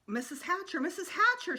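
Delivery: high, eager calling out. A narrator's reading. Sheila calling to the mother from the rock, high and eager. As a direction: call for her attention, rising. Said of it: "Sheila called".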